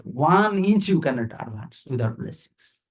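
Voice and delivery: "One inch" stretched and punched at the front; quoted teaching. Retold or imitated. Teacher repeats his guru's saying, stressing "One inch". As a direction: hit "One inch" hard, then let the rest fall away. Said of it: "Gurudev said".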